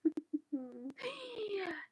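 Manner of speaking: a high, breaking burst of laughter; squealed giggle; high squealing laugh. Real, not acted. Big laugh at own headgear.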